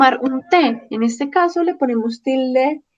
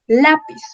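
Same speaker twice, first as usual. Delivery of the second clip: Lápiz with LÁ raised and stressed; stress on penultimate syllable; 4 semitones higher than usual. Shown as a demonstration. Teacher gives Lápiz as a grave word, stressing LÁ. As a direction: hit the first syllable of Lápiz. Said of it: "la penúltima lleva la tilde".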